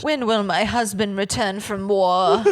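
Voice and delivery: Southern belle melodrama. Retold or imitated. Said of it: "went Gone with the Wind".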